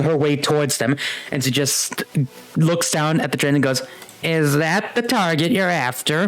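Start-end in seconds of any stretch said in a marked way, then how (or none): 4.2-6.3 a hint of an old crone, pitched higher; lightly voiced old woman. Game master as old woman eyeing the train, lightly voiced crone. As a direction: ask it with a touch of old-woman voice. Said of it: "like, feeble old woman in".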